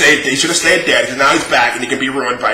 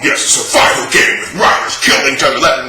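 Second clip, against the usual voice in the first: mocking Dan's hype. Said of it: "the best fucking promoter".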